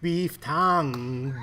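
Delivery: put-on slow, drawn-out heavy Hispanic accent. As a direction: stretch "Beef tongue" slowly in a heavy Hispanic accent. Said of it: "heavy Hispanic accent".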